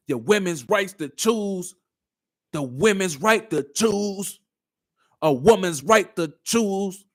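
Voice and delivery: slow, drawn-out mocking recital; parroted slogan. Host repeating a slogan he hears often, slow mockery. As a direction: parrot the slogan slowly, stretching each word. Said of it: "I hear that so much".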